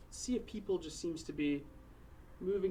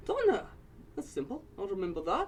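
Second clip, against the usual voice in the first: put-on old dwarf woman; 3 semitones higher, 3 dB louder than usual. Borla asking about the companions, hearty dwarf voice.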